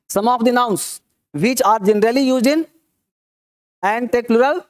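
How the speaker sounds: measured classroom dictation; reading a rule aloud. Real, not acted. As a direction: read it out slowly, phrase by phrase for note-takers.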